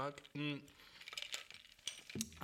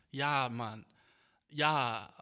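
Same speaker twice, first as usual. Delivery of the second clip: a pained edge to the voice; suffering undertone; 2 semitones lower, 6 dB louder, much slower than usual. Real, not acted. Answering a doubter while his back still hurts, mildly pained. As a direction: let a little suffering show. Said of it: "mit einem leidenden, leidenden Unterton".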